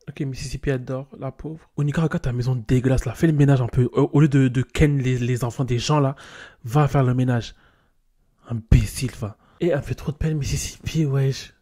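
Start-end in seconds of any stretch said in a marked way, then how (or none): 1.8-9.4 mock scolding. Scolding Onika in game.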